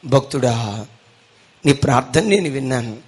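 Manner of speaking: a hint of a booming god; God's voice. God speaks in joke story.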